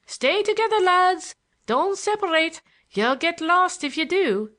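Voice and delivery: very high, loud yell. A narrator's reading. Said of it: "he yelled".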